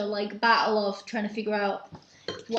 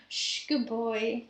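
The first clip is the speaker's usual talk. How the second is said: soothing; much slower than usual. Real, not acted. Soothing the dog.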